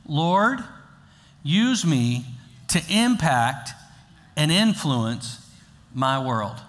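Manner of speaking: prayer said slowly for the church to repeat; slow led prayer. Shown as a demonstration. Pastor leading the congregation in a slow, deliberate prayer. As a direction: lead the prayer slowly, word by word. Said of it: "Would you say it with me?".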